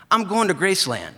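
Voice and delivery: high, loud, eager friend's voice; Brian's eager voice. Retold or imitated. Brian greets his mail carrier, high and loud. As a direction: pitch it way up and call out to your old buddy.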